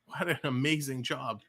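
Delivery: brisk hockey commentary from the face-off; hockey announcer admiring the play; live play-by-play. Acted. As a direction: call the face-off and the play as it happens.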